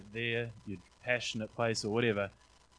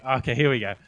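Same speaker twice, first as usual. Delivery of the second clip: eager anticipation; 2 semitones higher, 11 dB louder than usual. Real, not acted. Boss mentions the ankle from the dream.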